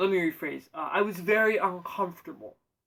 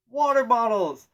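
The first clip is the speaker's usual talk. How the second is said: loud, high and slow outraged reveal; punchline exclaim; 6 semitones higher, 11 dB louder, slower than usual. Acted. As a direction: belt out the absurd punchline. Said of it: "guess what they're selling".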